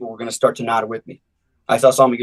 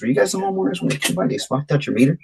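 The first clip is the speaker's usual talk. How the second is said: confused question; 2 semitones higher than usual. Retold or imitated. A door knocker confusing the homeowner with a muddled question. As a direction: ask it like you have no idea what's going on. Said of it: "And I'm looking at them confused".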